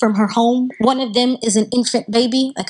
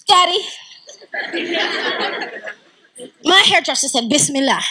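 higher, hammed-up pompous princess; 5 semitones higher than usual. Princess tells on her hairdresser to her father, pompous. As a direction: play a pompous princess tattling to daddy. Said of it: "Pompous princess".

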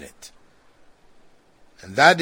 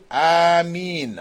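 long, drawn-out Ameen; said aloud; 2 semitones higher than usual. Shown as a demonstration. Teacher showing worshippers' Ameen after Fatiha, said aloud. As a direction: Ameen held out in full voice.

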